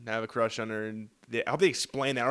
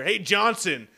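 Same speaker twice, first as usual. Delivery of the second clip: raised voice summoning an underling; calling out orders; 5 semitones higher, 3 dB louder, slower than usual. Retold or imitated. Doctor calling Johnson over to clean up, calling out. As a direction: call him over to clean up.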